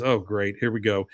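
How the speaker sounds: low, mock-weary reluctance; unimpressed customer. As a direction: lightly voice a customer dreading the pitch. Unimpressed customer in retold sales scene.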